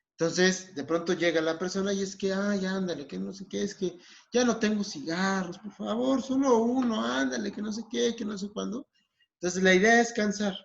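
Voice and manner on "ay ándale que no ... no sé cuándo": higher-pitched, wheedling nagging; insistent pleading. Acted. Smoker begging a friend for one cigarette, insistent. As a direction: pester them in a raised, running whine. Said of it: "esta persona que está siendo insistente".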